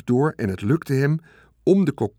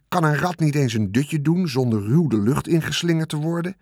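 higher, grumbling rat voice, woken rudely; a rat grumbling at being tossed awake; indignant rat; 4 semitones higher than usual. Acted. The rat complaining to Wilbur, indignant rat voice.

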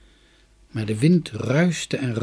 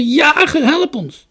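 high, loud plea; urgent carrying yell; calling for help; 8 dB louder, slower than usual. A narrator's reading. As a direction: shout to be heard and rescued. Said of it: "riep ze".

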